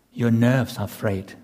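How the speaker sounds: usual speaking voice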